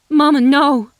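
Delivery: high, loud desperate cry; shouted plea of alarm; cry of dismay. A narrator's reading. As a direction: plead in panic for her to stop. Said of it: "she cried in dismay".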